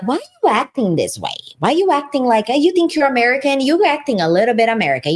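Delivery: mocking friends. Friends back in Brazil needling her in a mocking voice. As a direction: mimic them accusing her of acting American. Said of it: "my friends are like".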